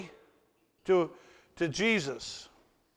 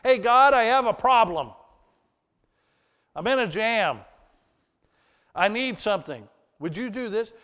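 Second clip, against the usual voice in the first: mock casual prayer; 3 semitones higher than usual. Mocking demanding prayers.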